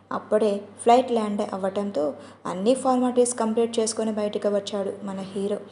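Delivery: ordinary delivery, nothing marked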